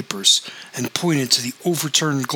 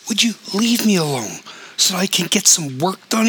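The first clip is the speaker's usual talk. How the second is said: hollered; 7 semitones higher than usual. A narrator's reading. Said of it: "he hollered".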